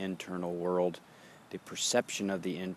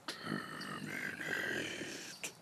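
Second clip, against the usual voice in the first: "Terminate" drawn out very slow, low and much softer; fading whisper; 11 semitones lower, 9 dB quieter, much slower than usual. Shown as a demonstration. Teacher showing the breath ending, with a slow sinking "Terminate". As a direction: let "Terminate" sink and fade away. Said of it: "Terminate, create".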